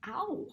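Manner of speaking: a quick startled yelp as if stung; sudden ow. A narrator's reading. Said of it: "made a noise like".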